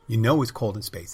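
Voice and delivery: mock-menacing repeat. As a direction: hit it harder the second time. Acted comeback line, repeated.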